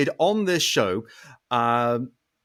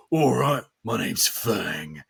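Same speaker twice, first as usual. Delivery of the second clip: low, slow, gravelly tamed bugbear; gruff bugbear, Fang; 3 semitones lower, much slower than usual. Shown as a demonstration. Player introduces a tamed bugbear barbarian, gruff and gravelly. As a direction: rumble it out gruffly, dragging the name. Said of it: "like, the gruff, gravelly".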